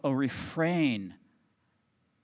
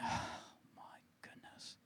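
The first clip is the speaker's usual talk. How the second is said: awed whisper; 18 dB quieter than usual. Retold or imitated. Overwhelmed watching friend carry pack.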